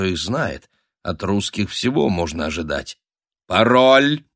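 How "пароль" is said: loud, rising demand; raised voice, insistent challenge; sentry's challenge. A narrator's reading. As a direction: call it out firmly, distrusting the answer. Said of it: "окликнул темноту часовой".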